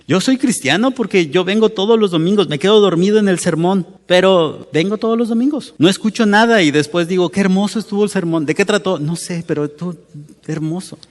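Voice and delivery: a light send-up of a sleepy churchgoer; mock self-satisfied believer. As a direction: lampoon the complacent Christian, lightly. Mocking a sleepy Sunday attender.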